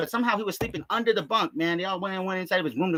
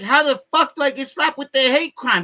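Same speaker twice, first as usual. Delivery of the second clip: incredulous; 6 semitones higher, 6 dB louder than usual. Retold or imitated. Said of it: "I was like".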